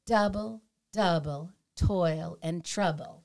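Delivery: "Double, double, toil and trouble" slowly, stressing each first syllable; measured beat on DOU, DOU, TOIL, TROU; trochaic rhythm. Shown as a demonstration. Host quoting Macbeth to demonstrate meter, trochaic stress. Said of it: "That's trochaic meter".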